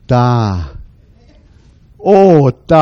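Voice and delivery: put-on mild baby voice saying da; toddler babble. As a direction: imitate a little toddler. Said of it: "og så sagde han". (lille dreng pludrer da)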